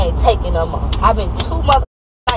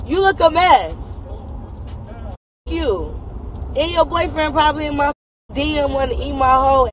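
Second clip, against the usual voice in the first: high-pitched furious put-down; angry insults; 6 semitones higher than usual. Real, not acted. Furious high-pitched insults hurled at a commenter. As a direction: tear into them, voice up high.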